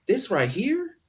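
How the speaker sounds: tearful laugh, voice cracking high; half laugh, half sob, overwhelmed; emotional crack between laugh and cry; laughing through tears. Real, not acted. Crying laugh while holding child.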